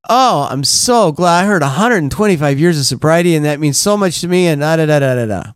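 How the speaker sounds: mildly hammed-up newcomer earnestness, trailing into da-da filler; retold gushing. Newcomer sharing with old-timers, mild mock gushing. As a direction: gush sincerely, then rattle off filler.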